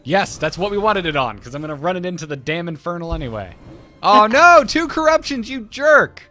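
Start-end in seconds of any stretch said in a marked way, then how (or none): 4.0-6.2 loud indignant yelp; outraged surprise. Real, not acted. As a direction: cry out at the unfair card. Game opponent cheats.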